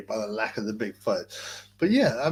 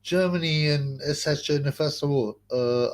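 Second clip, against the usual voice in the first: higher, puzzled mocking voice; mock clueless questioner; 4 semitones higher than usual. Streamer mocks people who don't know why they fought, in a higher puzzled voice. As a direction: play a baffled member of the public. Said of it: "Ask anyone today".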